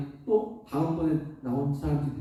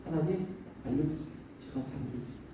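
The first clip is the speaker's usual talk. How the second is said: humble prayer; 9 dB quieter than usual. Retold or imitated. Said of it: "하나님 앞에 아뢰 있는 거죠".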